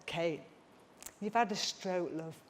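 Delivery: low, soft, deliberate explaining; retold, quietly exasperated; husband's weary patience. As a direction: imitate a husband gently spelling out the obvious. Retells husband's exasperated reply.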